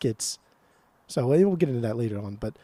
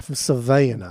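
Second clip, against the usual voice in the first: put-on Savannah accent; Savannah Georgia accent; 3 semitones lower than usual. Shown as a demonstration. Defending the accent to a co-host, in a Savannah accent. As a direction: say it like a Georgia local. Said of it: "My Savannah accent".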